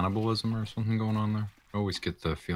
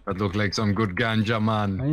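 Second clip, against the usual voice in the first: put-on Jamaican accent. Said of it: "terrible Jamaican accents".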